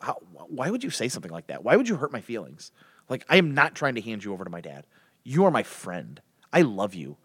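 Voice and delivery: acted tender reassurance; hurt sincerity. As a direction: let the voice sink, wounded but loving. Acted Jonathan, hurt, declares his love.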